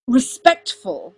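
slow, loud, drawn-out repeat; incredulous echo. A narrator's reading. Uther scornfully echoes Arthur's word.

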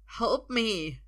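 urgent cry for help; begging. A narrator's reading. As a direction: plead to be rescued. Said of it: "he begs".

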